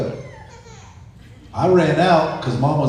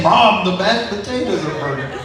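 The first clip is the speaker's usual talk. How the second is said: laughing mock alarm; 7 semitones higher than usual. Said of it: "I kept saying".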